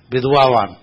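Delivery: विधवावान with an extra vowel broken into the vidv cluster; Punjabi mispronunciation. Shown as a demonstration. Guru mocks how Punjabis say vidvaan as विधवावान, laughing. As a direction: split विधवावान into vidh-va-vaan, mocking the Punjabi slip. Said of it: "Punjabi लोग विद्वान नहीं बोल पाते".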